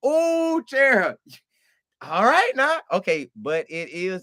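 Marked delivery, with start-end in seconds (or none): 0.1-2.8 high playful ooh with a laugh; playful laughing surprise; teasing ooh. Real, not acted. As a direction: tease her like she said something bold. Teasing a viewer's comment.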